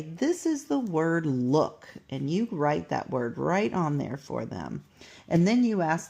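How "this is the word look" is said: slow modeling. Shown as a demonstration. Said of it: "then what you need to do is say".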